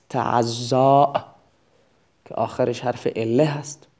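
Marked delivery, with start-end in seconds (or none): 0.1-1.1 تعزا drawn out very slowly, each syllable spaced; slow teaching read. Shown as a demonstration. Teacher to students, spelling out the verb slowly. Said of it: "فعل امر هست".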